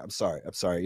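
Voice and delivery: soft contrite retold apology; calming down apology. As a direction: pull it back down, apologising. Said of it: "I reeled it back down".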